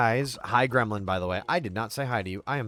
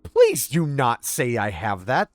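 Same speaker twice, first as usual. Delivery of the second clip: louder plea leaping high in pitch; exasperated protest; 3 semitones higher, 4 dB louder than usual. Real, not acted. Streamer begging chat not to say that, exasperated. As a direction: object hard, voice jumping up. Objecting to chat's teasing remark.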